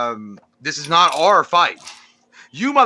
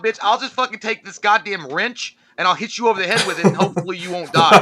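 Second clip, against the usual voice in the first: laughing; 3 semitones higher than usual. Pretend. Mocking the scene, laughing.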